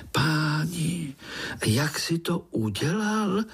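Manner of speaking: high, eager wow; bursting with admiration; lightly voiced excited child; amazed child. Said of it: "povyskočil Pája".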